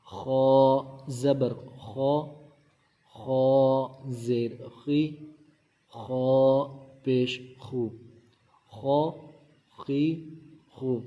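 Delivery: خو said thick and full, a back-of-throat kh; heavy kha. Shown as a demonstration. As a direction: make خو heavy and rounded, "khaw". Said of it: "خو موٹا ہے تو خو کو ہم موٹا کر کے پڑھیں".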